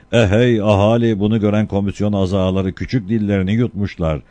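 town crier. Acted. Crier continues the proclamation.

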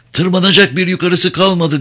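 high, loud shout. Acted. Crow warning Leon from the burning deck, high shout. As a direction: yell the warning over the fire. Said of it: "diye bağırdı".

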